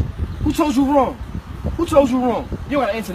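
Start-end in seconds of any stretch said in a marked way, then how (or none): 0.0-1.1 drawn out, each word weighed; slow, deliberate question. Real, not acted. To little bro, slowly pressing the question. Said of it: "Who ill-advised you?".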